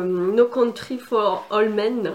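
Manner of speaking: English title said with a French accent; apologetic French-accented English. Real, not acted. En lisant un titre anglais, accent français. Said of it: "désolée pour mon accent".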